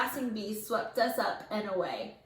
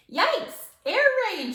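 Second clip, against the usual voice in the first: high, loud alarmed shout; 9 semitones higher, 5 dB louder, slower than usual. A narrator's reading. Arnold warning the class about bees, high alarmed shout. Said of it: "shouted Arnold".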